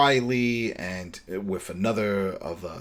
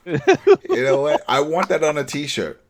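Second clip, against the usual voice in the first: excited; 5 semitones higher, 7 dB louder than usual. Real, not acted. Excited idea for a t-shirt.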